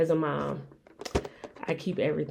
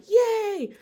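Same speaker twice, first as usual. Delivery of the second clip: potty training praise; 14 semitones higher than usual. Retold or imitated. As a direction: cheer like your toddler just did it. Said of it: "I would make, like, a big thing".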